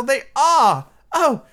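high, loud exclamation; soaring, delighted outburst; thrilled reveal. A narrator's reading. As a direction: cry out in hammed-up amazement. Boys thrilled by second reveal.

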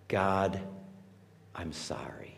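hushed, breathy apology to God; whispered prayer. Shown as a demonstration. Humble prayer of repentance acted.

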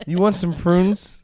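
slow, sweet, condescending caretaker; solicitous. Pretend. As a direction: coo it like to a toddler. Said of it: "treat her like a senile animal".

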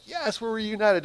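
high-pitched mock celebration; mock cheery. Preacher imagining too light a reunion, mock cheery. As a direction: toss it off as a breezy, imitated cheer.

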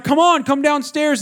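high, drawn-out fed-up plea; acted impatient dad; exasperated calling. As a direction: call the kid down, out of patience. Mad father calls son down.

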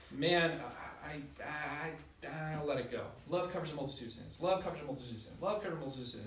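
mild, easygoing shrug of a voice; a hint of a breezy avoider, quick; brushing it off. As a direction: lightly play someone letting it slide. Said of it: "some of you are more toward grace".

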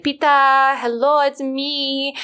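mock the friend's vampire hello; imitating the vampire voice. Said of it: "she's always like".

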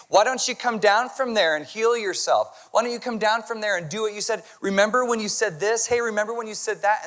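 a hint of the jeering crowd; taunting crowd. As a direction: throw the taunts up at him. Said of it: "they're saying".

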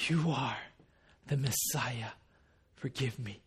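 soft, low, reverent statement; quiet plea, settled and sincere; humble confession. Retold or imitated. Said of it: "It wasn't with the question mark".

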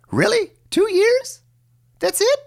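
high squeaky disbelief; incredulous falsetto. Real, not acted. Outraged disbelief at phone lifespan.

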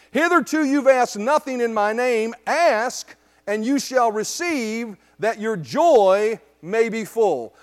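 measured verse, slowing to separate words; solemn scripture reading. Acted. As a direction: proclaim the verse, drawing out the key words. Reads Jesus's words to congregation.

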